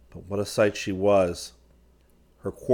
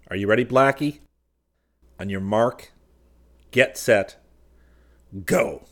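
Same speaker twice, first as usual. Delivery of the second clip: starting countdown; 2 semitones higher, 4 dB louder than usual. Acted. Seaton readying his partner to storm the door, mounting countdown. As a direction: count them off, then launch the charge.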